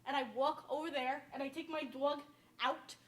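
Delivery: downstate accent with rounded aw in talk, walk, dog; demonstrative downstate New York vowels. Shown as a demonstration. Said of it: "This is just how I talk".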